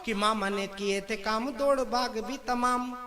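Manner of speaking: slow, metred satirical verse; poem recitation. Acted. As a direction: recite the couplet in drawn-out beats.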